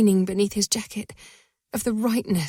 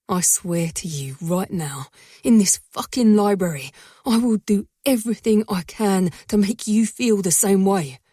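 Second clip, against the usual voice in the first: fierce vow; 4 dB louder than usual. Acted.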